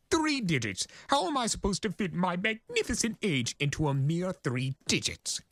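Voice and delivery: high, theatrical chaos spirit boasting of his age; grandiose Discord voice. Acted. Discord boasting to the Pegasus, high and grandiose.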